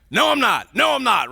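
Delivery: loud, high panicked no; panicked denial. Retold or imitated. Peter denies in panic.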